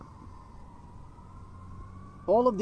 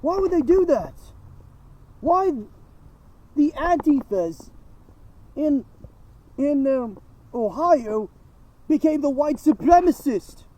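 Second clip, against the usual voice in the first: wild unhinged ranting; 4 semitones higher than usual. Real, not acted. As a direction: rant it out, pitched up and shouting. Escalating outraged rant.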